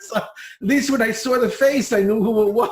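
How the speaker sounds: amused, talking through real laughter; laughing. Real, not acted. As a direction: let a laugh break into the words. Joking about unpronounceable names.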